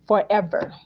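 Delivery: "forever" set apart as its own statement; stress on forever. Retold or imitated. Pledging to stay for good, stress on forever. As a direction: let "forever" stand alone, firmly. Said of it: "emphasis on forever".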